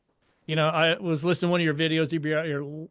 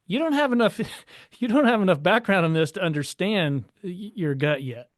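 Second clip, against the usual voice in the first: higher-pitched, insistent pushback; voiced inner objection; 4 semitones higher than usual. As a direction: voice a doubtful gut reaction. Voices own gut feeling about agent.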